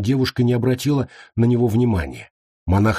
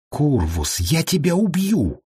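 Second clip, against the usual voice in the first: slow, high-pitched angry threat; roared threat; 7 semitones higher, slower than usual. A narrator's reading. Shas threatening the monk Kurvus, in an angry roar. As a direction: roar it without much extra volume. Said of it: "вновь взревел Шас".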